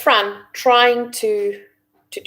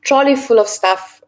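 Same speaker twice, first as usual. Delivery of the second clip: through gritted teeth. Retold or imitated. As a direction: speak through your teeth. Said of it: "speaking through my teeth, gritting my teeth".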